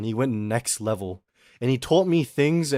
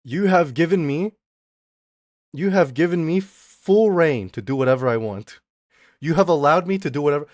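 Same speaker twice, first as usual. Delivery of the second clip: badly faked Indian accent; off-target Indian accent impression; failed Indian accent; 3 semitones higher, 4 dB louder than usual. Shown as a demonstration. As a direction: attempt an Indian accent and miss. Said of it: "That's not the Indian accent".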